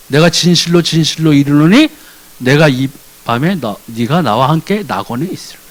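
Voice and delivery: understated tender voice of Jesus; tender promise. Retold or imitated. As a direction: promise it gently.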